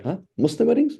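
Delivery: mock shock at a Muslim wedding with alcohol; shocked disbelief. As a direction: pitch jumps high on weddings, stunned question. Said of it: "He's like".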